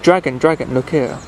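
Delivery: a storyteller's gentle hail up the mountain; mild mock shout. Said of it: "and then he shouted".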